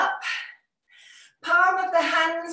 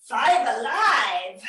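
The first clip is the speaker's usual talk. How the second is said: bingo caller; 3 semitones lower, 3 dB louder, slower than usual. Retold or imitated. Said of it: "turning into a bingo call".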